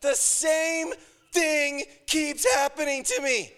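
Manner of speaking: mock-outraged righteous sufferer; self-pitying rant. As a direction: wail about your bad luck.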